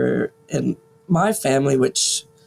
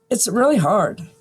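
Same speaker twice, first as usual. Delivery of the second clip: holding back tears; 3 semitones higher than usual. Real, not acted. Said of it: "I'm trying not to cry right now".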